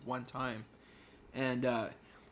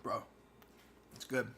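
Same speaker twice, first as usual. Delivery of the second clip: talking while eating pizza; words round a bite of food; mouth full. Real, not acted. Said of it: "He's eating his pizza".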